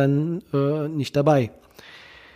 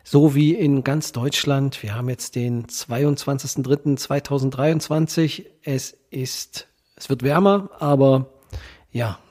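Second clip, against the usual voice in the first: blocked nose from a cold, nasal. Real, not acted. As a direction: speak stuffy-nosed with a head cold. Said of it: "mit meiner nasalen Stimme".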